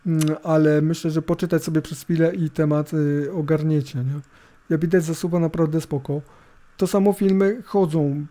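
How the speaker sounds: ordinary delivery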